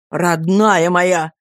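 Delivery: slow, tender endearment; David comforts frightened Dora, slow and tender. Acted. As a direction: soothe her gently and slowly. Lover soothes frightened Dora.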